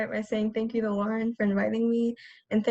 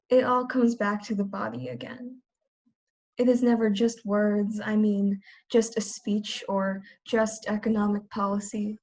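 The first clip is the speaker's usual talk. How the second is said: spoken-word poem in measured phrases; poetry reading; slower than usual. Acted. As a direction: recite each phrase steadily, with pauses between. Reads second poem aloud.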